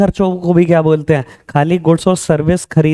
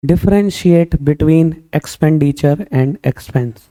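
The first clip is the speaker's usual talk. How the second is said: reading the exam question; much slower than usual. Retold or imitated. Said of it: "तो paper कहता है".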